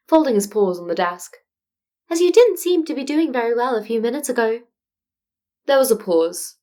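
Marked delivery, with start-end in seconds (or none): 2.1-4.6 higher, polite and measured small creature; a careful, tactful principal; diplomatic Nezu. Acted. Nezu's voice held by narrator.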